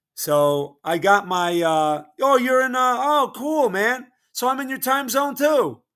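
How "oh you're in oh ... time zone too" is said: loud yelling with voice pitched very high. Speaker on a call, admitting they're used to yelling, yelling. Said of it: "I know I'm yelling".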